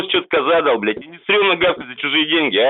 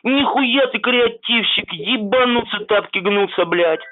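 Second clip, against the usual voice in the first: sarcastic drawl; 6 semitones higher, slower than usual. Acted. Sarcastic mock praise.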